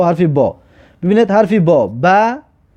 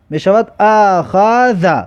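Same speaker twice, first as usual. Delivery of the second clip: slow demo; much slower than usual. Shown as a demonstration. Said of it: "کلمه را ببینید".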